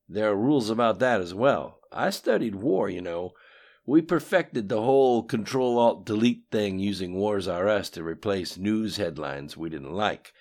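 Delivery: lightly voiced cocky politician; Bill's voice. A narrator's reading. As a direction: brag about old schemes, loud. Bill speaks in story.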